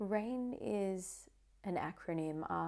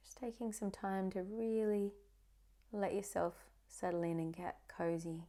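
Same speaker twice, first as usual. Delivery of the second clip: guided meditation. Acted. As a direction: ease the listener into calm, one phrase at a time.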